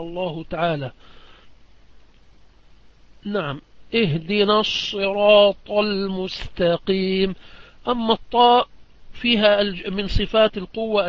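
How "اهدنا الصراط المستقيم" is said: Quran recitation. Shown as a demonstration.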